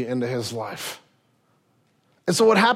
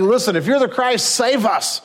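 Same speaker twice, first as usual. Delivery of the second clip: higher, mocking jeer at the man on the middle cross; mocking rail; 7 semitones higher than usual. Criminal on the cross taunting Jesus, a retold mocking jeer. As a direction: sneer it up at him, half-acted. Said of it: "railing at him".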